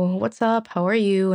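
a light, casual greeting as her dad; lightly voiced dad, easygoing and unaware. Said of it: "In his usual voice".

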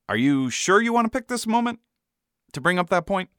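high-pitched, careful warning; older-sibling warning. A narrator's reading. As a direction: gently warn a younger sibling off. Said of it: "older sibling advice look".

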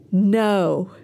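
a short, firm "No.". Shown as a demonstration. Teacher leads the class in a firm no. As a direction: plant your feet and say "No.". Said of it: "And again".

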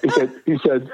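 stumbling over the words through a laugh; chuckling while starting the story. Real, not acted. Answering the interviewer's question, laughing. Laughing before telling dad's reaction.

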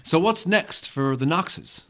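slow, deliberate interviewer voice; interviewer's question. Acted. Interviewer asking the outlaw couple, measured and deliberate. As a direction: put the question slowly, as an interviewer. Reading interviewer's line in scene.

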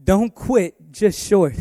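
slow, loud, high preaching. Real, not acted. Preacher urging the congregation not to give up. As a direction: drive it home to the congregation.

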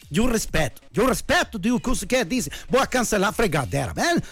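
mock Brazilian-accented Spanish, lively rant; hammed-up Brazilian coach's accent; Tuca. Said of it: "como dijo el Tuca".

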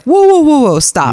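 half-joking overwhelmed stop; overwhelmed whoa. Retold or imitated. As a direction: throw up your hands, whoa whoa stop. Retelling overwhelmed reaction, whoa.

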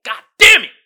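loud, high frustrated curse; mock exasperated yell. Saying goodbye to someone who talks too much, mock exasperated yell. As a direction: groan out the curse in mock despair. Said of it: "You like".

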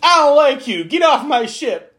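high, loud mock hostile snap. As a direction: spit it out like a petty captain. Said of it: "This felt like".

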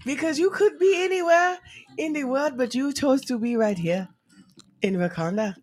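emphatic Wakanda accent, easing down at the end; Wakandan accent. Shown as a demonstration. Flattering a caller, Wakandan accent. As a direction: welcome them in a Wakandan accent. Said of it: "Is that your Wakanda accent?".

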